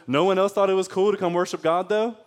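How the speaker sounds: slangy challenge with a touch of hood attitude; hood Jesus. Acted. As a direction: play Jesus as a little bit hood. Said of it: "that's a little bit hood Jesus".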